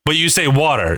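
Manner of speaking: "water" as "wadder", D for the T; imitated pronunciation. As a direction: soften the T of "water" to a D and keep the R. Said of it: "so it's like W A D D E R".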